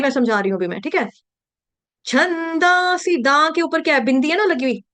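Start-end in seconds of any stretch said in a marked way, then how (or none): 2.1-3.2 high, slow छंदांसी with open long 'daa' before सी; chhandaa-si in छंदांसी, no 'u' glide; wrong pronunciation. Shown as a demonstration. Teacher setting up the mistake, slow plain-vowel pronunciation. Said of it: "छंदांसी नहीं होगा".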